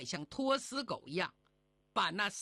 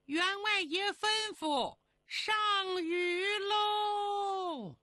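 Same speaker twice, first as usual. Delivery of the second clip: maid calling out; 11 semitones higher, slower than usual. Acted. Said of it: "丫鬟春香喊了一声". (丫鬟高声吆喝上菜)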